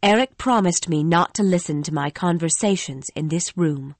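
a lightly voiced young woman, troubled; lightly voiced Christine, remembering; Christine the singer. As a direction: tell it like a frightened young singer. Christine's voice, held.

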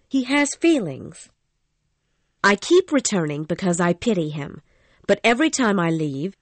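a lightly voiced young woman, troubled; lightly voiced Christine, remembering; Christine the singer. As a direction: tell it like a frightened young singer. Christine's voice, held.

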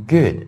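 "good" with a very short oo vowel. Shown as a demonstration. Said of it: "一定是很短的音".

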